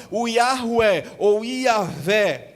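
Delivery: Yahweh ou Yahvé spelled out slowly, each name drawn out; careful pronunciation. Shown as a demonstration. A pastor tells the congregation God's name, slow and solemn. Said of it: "Deus revela o seu nome pessoal".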